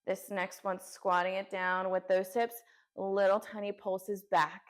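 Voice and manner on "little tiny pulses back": shaking with effort. Real, not acted. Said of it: "I am shaking".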